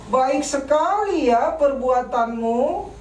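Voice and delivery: slow, sneering praise that means the opposite; sarcastic. Shown as a demonstration. Parent to child home late, sarcastic. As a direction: drag out "Baik sekali ya" so it stings. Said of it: "dengan nada sinis mengatakan".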